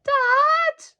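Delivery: high, loud alarmed shout; crying out. A narrator's reading. Boy shouting to his father as the plaster falls, alarmed. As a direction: yell for his father in fright. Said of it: "Jonathan cried out".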